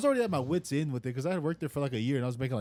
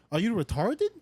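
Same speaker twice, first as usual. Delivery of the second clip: higher pitch, mock-incredulous boss; incredulous question; 5 semitones higher than usual. Boss questioning worker's cleaning, mock incredulity. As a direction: imitate her insulting question, lifting at the end. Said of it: "asked me like that".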